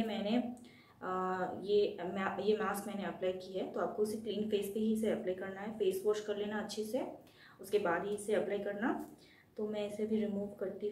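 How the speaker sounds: face covered by wet mask; through a sheet mask. Real, not acted. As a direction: lips framed by mask cutout. Seen 2: Wet sheet mask covers face and lips area while speaking; peeled later.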